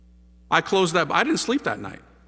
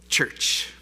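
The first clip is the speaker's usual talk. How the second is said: whispered, voiceless single word; dreaded reveal. Retold or imitated. Storyteller naming the place he avoided, hushed dread. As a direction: let it out as a hushed horror.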